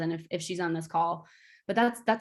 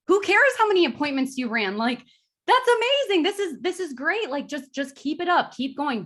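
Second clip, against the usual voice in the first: enthusiastic cheering; 8 semitones higher, 4 dB louder than usual. Retold or imitated. Mentor Mark cheering her on.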